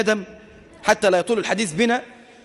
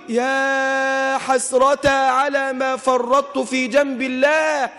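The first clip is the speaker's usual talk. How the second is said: long-held cry of lament, not truly shouted; acted, drawn-out outcry; imitated anguished scream; 3 semitones higher, much slower than usual. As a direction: stretch the opening wail very slowly. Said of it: "يصرخ بأعلى صوته".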